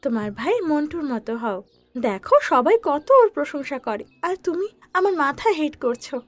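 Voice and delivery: high-pitched mother scolding her son; a mother lecturing, firm and disappointed. Acted. Mother scolding Chinku for misusing his power, high and stern.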